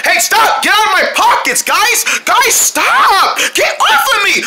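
high-pitched yelping protest; frantic high squabbling shout. Acted. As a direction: fend them off, pitch climbing with each plea. Pockets being searched in scuffle.

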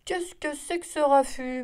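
lightly voiced cow, grumbling at the racket; a touch of a cross cow grumbling. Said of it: "maugréa la vache".

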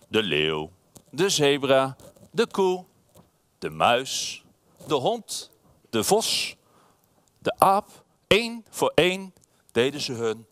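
slow storybook narration, pausing after each phrase; unhurried bedtime storyteller; reading to children. A narrator's reading. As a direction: let each animal land on its own. Reads picture book to children.

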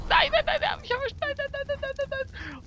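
very high, rapid-fire panic cry; panicked squealing. Real, not acted. Player hit by the creature cries out, panicked squealing.

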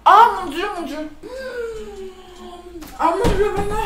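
crying out, mouth on fire; gasping through burning mouth; mouth full of hot food. Real, not acted. Pepper burning her mouth.

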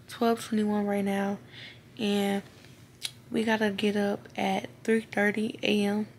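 words round dental retainers; talking with retainers in. Real, not acted. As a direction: speak with retainers in your mouth. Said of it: "If I'm talking weird, it's 'cause I got my retainers in".

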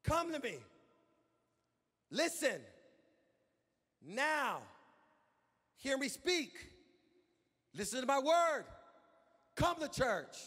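God calling his people with pauses; voicing God. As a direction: call the people in as God would. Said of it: "And he says it again".

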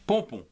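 "Pompon" said as two nasal syllables, pon-pon; syllable blend. Shown as a demonstration. Teacher to pupils, blending the syllables slowly. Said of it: "se prononce pont".

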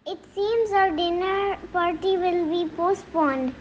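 high fox voice with a touch of fright; lightly acted scared fox; frightened fox. A narrator's reading. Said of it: "said frightened Fox".

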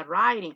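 "writing" as RYE-ding; correct pronunciation. Shown as a demonstration. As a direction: say "writing" with an eye vowel.

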